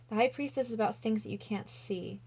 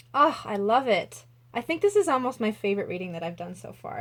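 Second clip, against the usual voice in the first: louder, gushing with delight; excited burst; 6 dB louder than usual. Real, not acted. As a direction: let the joy spill out, quickly. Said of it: "I'm just getting so pumped".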